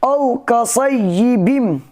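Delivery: औ कसय्यिबिम chanted slowly; tajweed reading. Shown as a demonstration. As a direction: recite औ कसय्यिबिम with care. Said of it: "इस तरीके से बोलेंगे".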